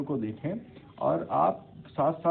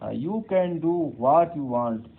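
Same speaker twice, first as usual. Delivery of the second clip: blunt statement; 4 semitones higher, 7 dB louder, much slower than usual. Shown as a demonstration. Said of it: "You are welcome".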